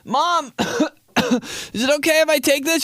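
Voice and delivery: high, slow voice broken by coughs; sick child. Acted. Child asking mom for Robitussin cough drops, sickly high plea. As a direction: plead up high between coughs.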